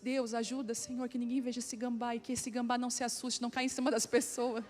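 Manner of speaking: hushed, urgent plea to God; murmured retold prayer. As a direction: pray quietly under your breath, imitated. Retold silent prayer while preaching. (oração baixinha, em tom de súplica)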